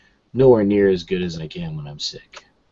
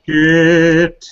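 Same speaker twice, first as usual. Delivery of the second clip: sick gravelly voice; 10 semitones higher, 8 dB louder than usual. Shown as a demonstration. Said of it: "what my voice is permanently like".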